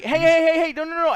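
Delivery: high, loud, rapid-fire protest; yelling. Retold or imitated. Customer stopping the worker pouring salt, urgent yelling. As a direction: yell to stop him mid-pour. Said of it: "So I'm yelling at him".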